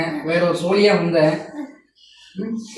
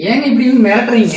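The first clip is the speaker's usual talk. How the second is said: laughing; 3 semitones higher than usual. Real, not acted. Customer laughs at pushy seller.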